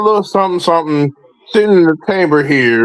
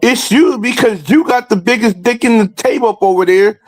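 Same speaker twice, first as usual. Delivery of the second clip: rising rhetorical callout; 4 semitones higher than usual. Real, not acted. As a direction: pitch climbs higher with each question. Rhetorical callout builds to climax.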